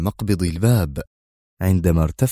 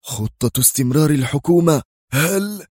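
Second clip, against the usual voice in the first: high, forceful startled question; 8 semitones higher than usual. A narrator's reading. Security chief questions the continuity plan, forcefully. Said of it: "وهو يقول في قوة".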